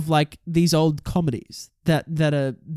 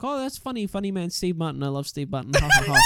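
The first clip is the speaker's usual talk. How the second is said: mobster boss. Retold or imitated. Remembering himself as a kid watching Steve Martin, hint of mobster boss. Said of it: "sound like such a fucking mobster boss".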